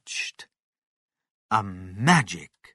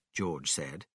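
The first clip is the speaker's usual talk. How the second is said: plain reading voice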